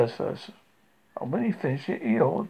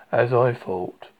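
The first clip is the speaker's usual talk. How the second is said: gloomy donkey; 3 semitones lower, 4 dB louder, slower than usual. Acted. Donkey gloomily judging his reflection.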